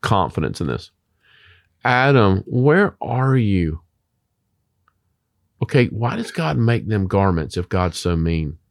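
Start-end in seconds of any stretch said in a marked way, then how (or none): 1.8-3.8 higher, slow calling out; a gentle searching call; God calling. Retold or imitated. God calling out to hiding Adam, slow and higher.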